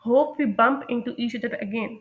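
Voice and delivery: slow, clear closing phrase; slow model sentence. Shown as a demonstration. Teacher slowly modelling a goodbye line. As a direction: say it slowly for learners to copy. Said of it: "ऐसा भी कोई sentence बोल सकते हैं".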